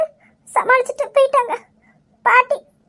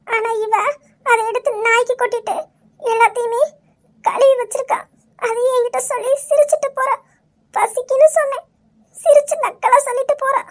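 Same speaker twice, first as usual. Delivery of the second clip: hurt wife recounting mistreatment; 3 semitones higher than usual. Acted. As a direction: pour out the grievance to your husband. (மனக்குறையோடு புலம்பும் மனைவி)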